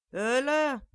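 high, loud cry of "Hulle"; calling out. Acted. Mother sees her child hit, calls out loudly. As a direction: call out in alarm across the street. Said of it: "riep ze".

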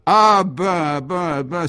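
high, loud stammer of astonishment; dumbfounded. Acted. Léon is hailed by a horse, dumbfounded cry. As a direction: burst out, flabbergasted, starting at a shout. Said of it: "s'écria Léon, littéralement interloqué".

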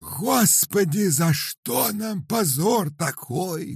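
very high, slow wailing shout; crying out. A narrator's reading. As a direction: cry out at the shame. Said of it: "кричала Рататиха".

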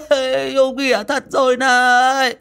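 put-on high, loud childish madman shout; shrill loud madman yelling. A narrator's reading. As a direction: bawl it like a deranged man-child. Madman yelling to his father.

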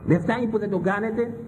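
high-pitched, scolding sermon delivery; indignant preaching. Acted.

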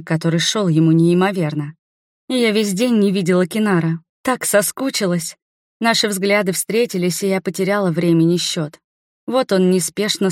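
ordinary delivery, nothing marked

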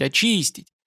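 ordinary delivery, nothing marked

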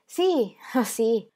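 high, willing yes of an obliging wife; docile and eager. A narrator's reading. Wife answering her husband, docile and eager. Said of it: "docile e sollecita al tempo stesso".

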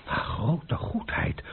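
slow, breaking horrified gasp; dismayed. Acted. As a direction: realise the trap in horror. Horrified at the document.

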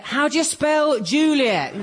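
high, drawn-out exasperated question; slow it right down in mounting exasperation; exasperated repeat. Retold or imitated. Actress acting out the question she always gets, exasperated.

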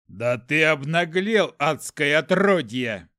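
loud, slow furious outburst; angry hiss. A narrator's reading. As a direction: spit the insult at the demon. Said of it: "прошипел бледнее Мран".

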